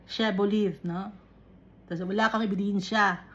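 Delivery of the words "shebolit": Shebolit with Visayan-style vowels; Bisaya accent. Shown as a demonstration. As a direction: say "Shebolit" as a Bisaya speaker would. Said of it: "kung ang pagbisaya".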